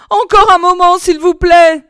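high, loud desperate plea; wife pleading, pitch leaping up; frightened pleading. A narrator's reading. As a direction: beg for time in panic. Terrified wife begs for delay.

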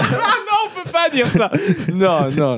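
high laughing protest; laughing mock protest. Real, not acted. Mock outrage at the joke.

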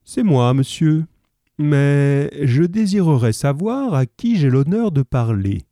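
Holmes posé, voix plus haute et polie; répond sans s'émouvoir, d'égal à égal; calme imperturbable. Acted. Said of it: "sans s'émouvoir". (calme poli et imperturbable)

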